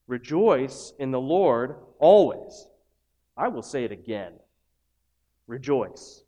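slow, weighty proclamation; solemn scripture quote. Acted. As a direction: let each word land slowly. Quotes scripture slowly, emphatically.

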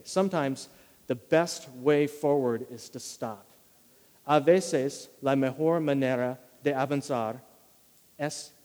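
"Sometimes the best way forward is to stop" slowly, every word weighed; slow key line. Shown as a demonstration. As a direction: lay it down slowly as the main point. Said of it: "If I were gonna distill this idea".

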